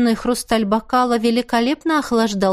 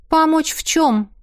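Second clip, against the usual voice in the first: жёстко; 6 semitones higher than usual. A narrator's reading. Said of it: "жёстко спросила она".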